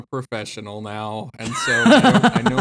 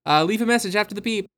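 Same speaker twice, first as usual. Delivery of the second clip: voicemail message; faster than usual. Acted. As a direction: reveal the fake greeting. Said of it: "it's a fake conversation".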